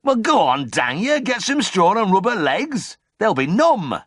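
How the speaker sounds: very high, loud, exasperated commands; angry orders. Acted. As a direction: snap orders at the farmhand, slowing on the straw. Farmer barking orders after fall.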